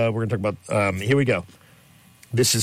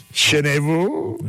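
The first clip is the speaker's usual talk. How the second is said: mock French accent; 3 semitones higher, much slower than usual. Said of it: "that French accent".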